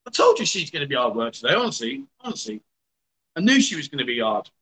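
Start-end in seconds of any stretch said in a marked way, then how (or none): 1.5-2.1 rising exasperated "honestly". Real, not acted. Exasperated at partner's music. 2.2-2.6 low muttered "honestly" under the breath. Real, not acted. Exasperated at partner's music.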